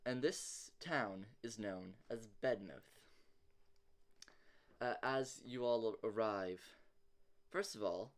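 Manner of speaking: measured narration with thoughtful pauses; game master's scene setting. Acted. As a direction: set the scene calmly, pausing between details.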